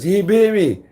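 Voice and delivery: high, loud mock accusation; imitated loud complaint. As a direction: cry it out as the aggrieved man. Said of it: "And he says it out loud".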